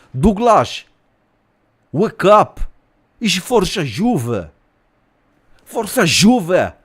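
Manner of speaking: high, drawn-out teammate's wake-up call; Danilo waking Douglas Luiz. Acted. Danilo in Douglas Luiz's room waking him, high calling voice. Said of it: "he went in the room of Douglas Luiz".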